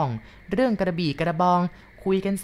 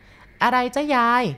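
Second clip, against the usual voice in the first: put-on higher, slow child asking; anxious boy; 7 semitones higher, 5 dB louder, much slower than usual. Boy anxiously asks grandma what happened. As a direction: ask nervously.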